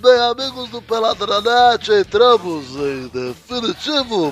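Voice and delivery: Galvão Bueno impression. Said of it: "É, Galvão".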